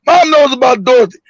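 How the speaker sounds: dropping the whisper, said openly; just say it out loud. Retold or imitated. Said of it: "fuck all that whispering".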